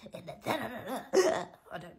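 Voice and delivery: cracking up mid-line; real laugh breaking through the words; can't get the words out for laughing. Real, not acted. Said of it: "All right, let me calm down".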